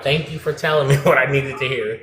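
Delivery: thanks broken by a laugh. Real, not acted. Panelist laughing as he thanks the host, laughing. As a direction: chuckle through the thank-you.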